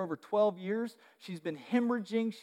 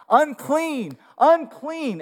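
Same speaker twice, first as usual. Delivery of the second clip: high, loud warning cry; town-crier shout of unclean; 8 semitones higher, 10 dB louder, much slower than usual. Retold or imitated. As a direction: call it out so the crowd clears. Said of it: "announce herself and shout".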